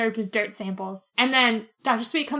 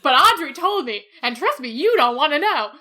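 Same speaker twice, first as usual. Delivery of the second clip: louder, darkly knowing warning; imitating the doctor; 5 dB louder than usual. Retelling the doctor warning Milo off, lightly voiced and louder. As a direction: warn him off like a weary old medic. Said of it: "And Sweet's like".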